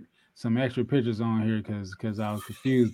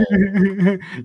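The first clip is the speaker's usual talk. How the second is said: loud laugh; 7 semitones higher, 6 dB louder than usual. Real, not acted. Cracking up over his own joke, a loud laugh.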